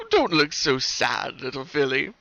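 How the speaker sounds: dazed smile. Acted. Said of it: "with a dazed over smile".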